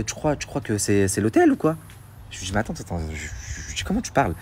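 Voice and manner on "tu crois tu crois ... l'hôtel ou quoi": scornful. Retold or imitated. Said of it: "elle m'agresse".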